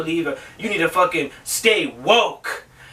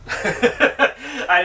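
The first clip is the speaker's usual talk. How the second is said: laughing; 5 semitones higher than usual. Real, not acted. Laughing at his own joke.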